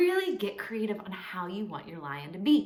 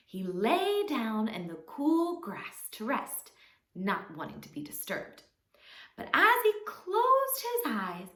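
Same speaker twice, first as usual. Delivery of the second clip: expressive, measured storytelling; children's story narration. A narrator's reading. Teacher telling children a fable, expressive storytelling. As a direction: tell it to little ones, drawing out key words.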